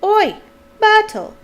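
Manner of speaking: high, very loud bellow; full-force shouted summons. A narrator's reading. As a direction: holler to someone across the room. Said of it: "took a deep breath and bellowed".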